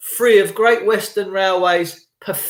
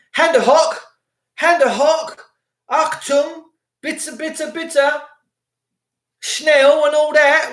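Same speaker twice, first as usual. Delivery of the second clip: higher, hammed-up German barking; mock Nazi officer in a higher voice; 6 semitones higher, slower than usual. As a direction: lampoon the copper as Gestapo. Mocking police as Gestapo.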